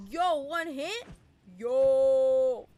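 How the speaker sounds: loud, excited gamer yell; excited shout. Real, not acted. Gamer whooping at the game, loud and excited. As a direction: whoop at a near kill.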